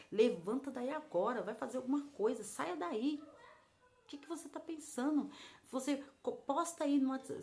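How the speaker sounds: lightly voiced rebuke, urging someone up; scolding. God telling a lamenting woman to get up, scolding. Retells God's stern scolding voice.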